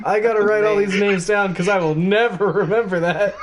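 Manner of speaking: amused, laughing through it. Real, not acted. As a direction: chuckle while talking. Laughing at the long name.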